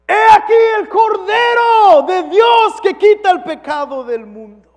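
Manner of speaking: booming proclamation, high and slow; ringing slow announcement; emphatic shout. Shown as a demonstration. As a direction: proclaim it to the whole crowd. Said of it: "Lo digo de esa manera".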